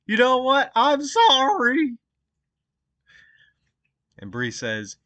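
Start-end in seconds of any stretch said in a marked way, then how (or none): 0.0-2.0 hammed-up shouty all caps apology; mock all caps yelling. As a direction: read it like an all caps text, getting higher to the end. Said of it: "in, in all caps".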